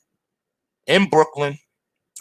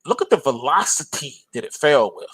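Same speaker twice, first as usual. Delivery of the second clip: ordinary talk, nothing marked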